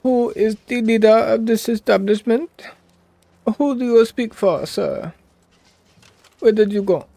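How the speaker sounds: loud, high-pitched put-on African accent. Streamer role-playing to game characters, African accent. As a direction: demand answers in a high mock African accent. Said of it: "This is my African accent".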